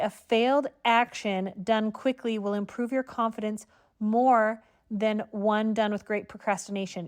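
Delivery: ordinary delivery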